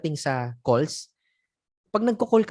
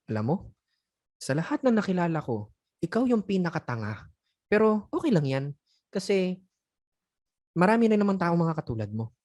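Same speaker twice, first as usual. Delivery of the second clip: calm insult. Shown as a demonstration. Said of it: "Sa umpisa, medyo kalmado pa eh".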